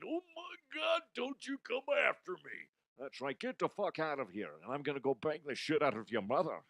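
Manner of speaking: hammed-up tough-guy taunt; a light Macho Man growl; Macho Man impression. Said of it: "I just did the wrong voice".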